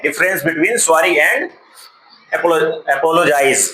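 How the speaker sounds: slow, spelled-out reading of the title. Shown as a demonstration. Teacher rereading the title slowly before the story. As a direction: read each word slowly off the board. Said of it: "rereads the title slowly".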